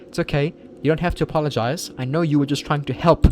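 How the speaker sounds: calm him down kindly; reassuring young woman. Acted. Girl character reassuring.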